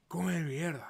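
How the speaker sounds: whispered come mierda, no voice; whispered repeat. Retold or imitated. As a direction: breathe it out secretly. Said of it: "That's what I said".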